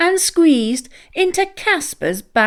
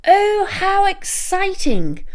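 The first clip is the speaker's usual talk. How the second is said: high, bright-eyed exclamation, much higher; excited; 10 semitones higher than usual. A narrator's reading. Narrator thrilled as the friends reach the picnic, excited. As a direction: gasp with delight at the meadow.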